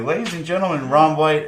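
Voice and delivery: hammed-up club announcer. Host introducing her on stage, mock announcer voice. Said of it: "I'll be like".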